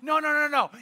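retold worried objection; mock alarm. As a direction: plead to stop it, playfully panicked. Lady protests parrot in freezer.

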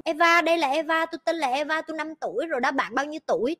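put-on a light child voice introducing herself; little girl introducing herself. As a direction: play the eager little girl. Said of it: "bà cũng".

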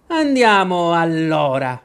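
loud, slow, drawn-out roar. A narrator's reading. Queen summons the girl to the game, roaring. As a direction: bellow it like a commanding queen. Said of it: "ruggì la regina".

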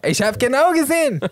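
high, emphatic outburst; mock accusation. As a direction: burst out accusing, pitch way up. Acts accusation in hypothetical scene.

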